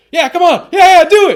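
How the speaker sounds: put-on very high, very loud drunk yelling. Describing a recording's background voice of a very drunk man: imitating a drunk shout. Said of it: "sounds like he's very drunk, and he shouts".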